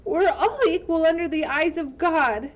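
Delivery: high, loud righteous declaration; firm declaration. Acted. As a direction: stand firm on principle. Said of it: "she declared".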